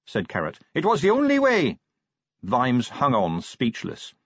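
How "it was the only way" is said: high, raised justification; carrying voice pitched well up; shouted reply. A narrator's reading. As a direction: call back over the din.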